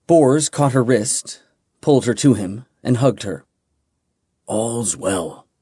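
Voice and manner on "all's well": soft whisper. Acted. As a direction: lower and much softer whisper. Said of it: "he whispered".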